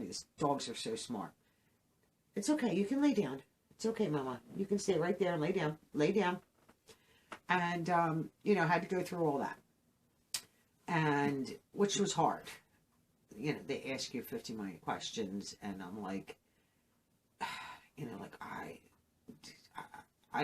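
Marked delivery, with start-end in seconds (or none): 2.3-6.4 higher, gentle coaxing to a pet; soothing the dog. Real, not acted. To her dog Oreo climbing on her lap, soothing and coaxing. 17.4-20.4 drained whisper after a sigh, much softer; barely able to get words out; weary sigh. Real, not acted. To police with endless questions after mom died, drained whisper.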